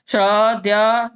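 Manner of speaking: श्र and द्य drawn out slowly and clearly; slow letter demo. Shown as a demonstration. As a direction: sound out each conjunct slowly. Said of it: "ज्ञ, छ". (धीरे और साफ़ उच्चारण)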